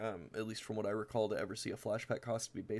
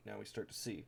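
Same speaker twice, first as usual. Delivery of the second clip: quiet emphasis; 6 dB quieter than usual. Shown as a demonstration. Pointing out the deck's synergy to viewers, quiet and knowing. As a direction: let it sink in, softly.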